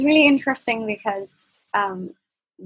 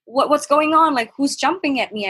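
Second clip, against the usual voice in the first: shocked; 5 semitones higher than usual. Retold or imitated. Groped from behind, startled cousin yelling out. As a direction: blurt it out, caught off guard. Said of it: "I was shocked".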